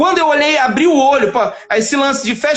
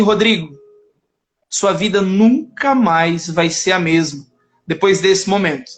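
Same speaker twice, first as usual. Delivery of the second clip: low, slow, grave prophetic voice; hushed prophecy into his ear; lightly voiced priest, slow and low; solemn priest; 7 semitones lower than usual.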